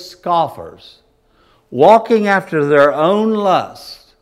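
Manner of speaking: solemn pulpit Bible reading; scripture reading. Acted. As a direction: read the Word with weight and authority. Reads scripture from Second Peter.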